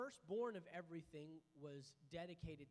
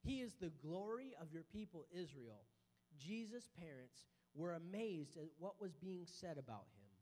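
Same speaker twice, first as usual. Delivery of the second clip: scripture reading; 3 semitones lower than usual. Acted. Reads Luke chapter two.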